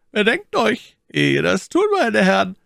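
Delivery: a high, loud, sonorous voice used to command. A narrator's reading. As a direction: speak like one who gives orders. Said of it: "eine tönende Stimme, die zu befehlen gewohnt".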